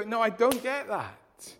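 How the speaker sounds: baffled objection. Retold or imitated. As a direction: play the doubter who can't believe grace is free. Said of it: "that's the thing they go".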